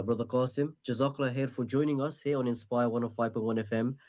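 ordinary talk

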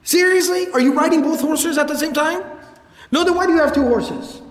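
put-on old man scolding a rich rider, incredulous and exasperated; incredulous reprimand. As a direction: scold the man with two horses in disbelief. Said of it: "he would reprimand people".

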